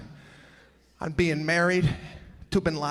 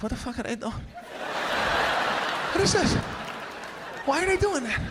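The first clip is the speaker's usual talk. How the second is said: baffled; 6 semitones higher than usual. Retold or imitated. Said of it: "I start looking around like".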